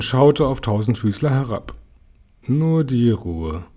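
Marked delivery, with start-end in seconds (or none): 2.4-3.7 slow, icy calm. A narrator's reading. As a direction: freeze him out slowly. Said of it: "sagte es eisig". (eisig und langsam)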